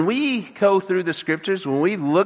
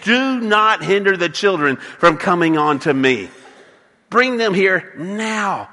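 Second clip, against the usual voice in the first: indignant command. Retold or imitated. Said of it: "And he is indignant".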